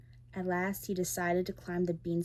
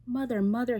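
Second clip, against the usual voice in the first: loud, higher calling; 5 semitones higher, 7 dB louder than usual. A narrator's reading. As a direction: shout to mother across the garden. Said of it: "he called out".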